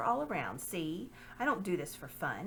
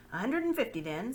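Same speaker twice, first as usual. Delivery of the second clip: higher, clipped agreement; curt lord; 4 semitones higher, 4 dB louder than usual. Acted. Lord agreeing the price with Pug, curt. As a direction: settle the price briskly.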